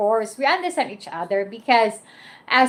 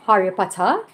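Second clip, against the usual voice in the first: imitated British accent, dropped R's; British-style Harry Potter with open endings; 2 semitones lower than usual. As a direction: try a light British accent. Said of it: "British accent talking together, like".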